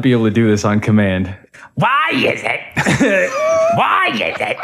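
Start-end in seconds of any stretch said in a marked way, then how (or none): 1.8-2.6 high strained comic shriek; a screeching stand-up comic voice; Gilbert Gottfried. Shown as a demonstration. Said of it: "That, that's Gilbert Gottfried". 3.8-4.6 high strained comic shriek; a screeching stand-up comic voice; Gilbert Gottfried. Shown as a demonstration. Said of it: "That, that's Gilbert Gottfried".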